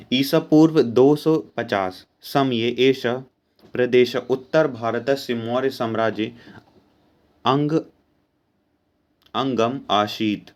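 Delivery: slow, careful Sanskrit recitation; teacher reading a Sanskrit passage aloud, slowly; slow text reading. Shown as a demonstration. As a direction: read the line word by word for the class.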